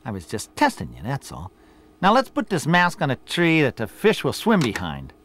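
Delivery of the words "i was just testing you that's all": sheepish. Acted. Boss caught out, covering.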